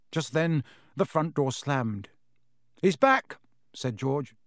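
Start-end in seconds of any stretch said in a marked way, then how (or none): 2.8-3.4 high, loud excited call; spring up at the sound; excited announcement. Acted. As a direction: boys hearing their dad come home. Front door slams, excited.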